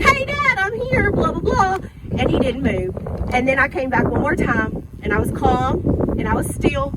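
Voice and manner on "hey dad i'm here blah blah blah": pitched well higher, calling out to wake him; louder call. Retold or imitated. Daughter calling louder to her unmoving dad. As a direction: raise the voice to rouse a sleeping father. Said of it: "I came back louder".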